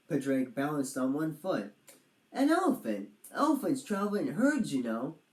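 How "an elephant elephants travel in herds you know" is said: much higher, knowing; lightly voiced dragon expert. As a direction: announce the answer proudly. Dragon guesses elephant.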